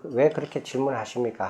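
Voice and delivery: mild, courteous reply to the king; gentle question. Retold or imitated. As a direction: ask back kindly and without edge. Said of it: "부드럽게 여쭤봐요".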